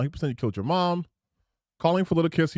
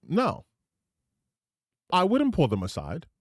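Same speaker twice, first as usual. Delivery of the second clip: mocking quote; 7 semitones higher than usual. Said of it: "And he's like".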